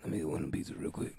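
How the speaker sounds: quick, furtive whisper. Acted. Needy customer discreetly asking for pizza, whispered. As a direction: sneak the request out in a whisper. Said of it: "like, whisper".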